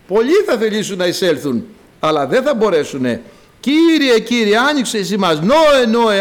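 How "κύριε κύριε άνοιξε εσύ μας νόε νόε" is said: louder, higher appeal on the names; acted pleading call. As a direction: call out, begging to be let in. Locked-out people cry to be admitted.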